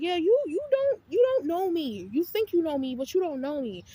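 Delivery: loud, high sassy comeback; mock defiant retort. Telling the roommate she doesn't know me, loud and sassy. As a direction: snap it back like you won't be played.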